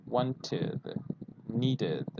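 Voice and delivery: wanted and needed with a clear id syllable at the end; model of wanted. Shown as a demonstration. Teacher repeats id endings for students. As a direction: land on the id ending. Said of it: "you have to say id".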